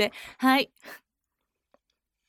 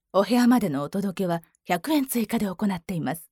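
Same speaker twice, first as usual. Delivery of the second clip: lower, mature woman read; forty-year-old woman voice; 4 semitones lower than usual. Acted. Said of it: "四十ぐらい。". (四十代の女性の声)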